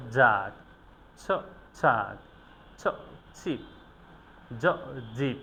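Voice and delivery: lone "জ" or "ছ", pause, then the syllable, falling; careful phoneme drill. Shown as a demonstration. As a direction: sound out "জ", then "জাগ", as a drill. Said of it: "খুবই খেয়াল রেখে আমাদের উচ্চারণ". ("জ", "ছ" আলাদা করে, থেমে, তারপর পুরো শব্দ)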